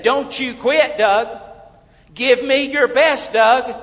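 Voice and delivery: a coach shouting encouragement; imagined yell. Retold or imitated. Someone yelling to Doug to keep going. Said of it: "somebody needs to yell at me".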